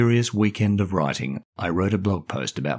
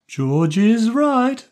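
high, slow and drawn-out agreement; frowning girl; 6 dB louder, much slower than usual. Acted. Anne agreeing with George, slow high girl's voice. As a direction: back up her cousin firmly. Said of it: "agreed Anne with a frown".

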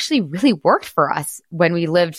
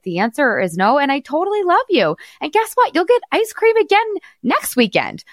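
kind mother's voice rising much higher toward the end; gentle with son; 4 semitones higher than usual. Retold or imitated. Mother gently telling her son Phoenix no, then soaring higher. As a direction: reassure the boy gently, brightening as you go. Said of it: "I don't yell at him. I just say".

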